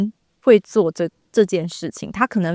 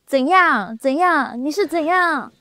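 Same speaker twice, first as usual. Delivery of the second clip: raised, pushy mock anger going higher; imitating an angry boyfriend; 7 semitones higher than usual. Mimicking a Taiwanese boyfriend in a fight, mock angry. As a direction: fire back like a fed-up boyfriend. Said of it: "很生气的男朋友".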